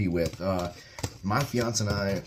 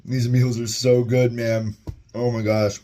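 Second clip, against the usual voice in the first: louder, slower burst of delight; excited; 4 semitones higher, 6 dB louder, slower than usual. Real, not acted. Reviewer gushing to viewers over the meal, excited. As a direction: gush about how good it tastes. Delighted reaction to tasting food.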